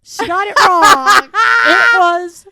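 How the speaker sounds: loud shout through laughter; laughing shout. Real, not acted. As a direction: yell it while laughing hard. Laughing at wrong guess.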